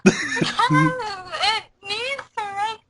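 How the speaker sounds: slow, laughing whine. Real, not acted. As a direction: defend yourself through laughter. Laughing at being mocked.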